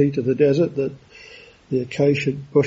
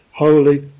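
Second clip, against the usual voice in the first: "holy" pushed out louder; emphatic repetition; 5 dB louder than usual. Shown as a demonstration. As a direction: put more weight on "holy". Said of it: "there is more, uh, emphasis on the, the following words".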